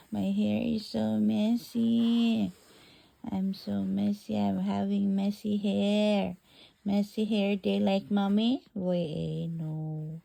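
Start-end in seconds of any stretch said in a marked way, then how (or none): 0.1-8.7 put-on baby voice. Mom voices baby waking.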